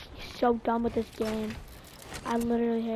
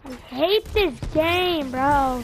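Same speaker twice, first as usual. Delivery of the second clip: annoyed; 4 dB louder, much slower than usual. Real, not acted. Raging after dying.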